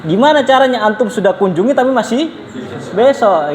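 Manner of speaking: baffled high question as if it makes no sense; mock puzzled Libyan friend asking how; confused asking. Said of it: "Gitu loh".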